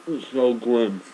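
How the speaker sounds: disgusted. Real, not acted. Reacting to eating raw leek.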